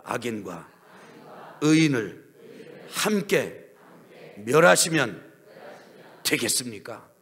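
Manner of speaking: loud, very slow protest; drawn-out loud challenge to God; said strongly. Shown as a demonstration. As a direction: demand it forcefully. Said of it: "한번 세게 해봐요".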